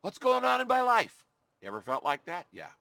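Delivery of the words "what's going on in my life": high, bewildered cry of confusion; confused cry. Retold or imitated. Job crying out to God in confusion, high and bewildered. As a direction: ask it baffled, voice jumping up. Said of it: "expresses confusion".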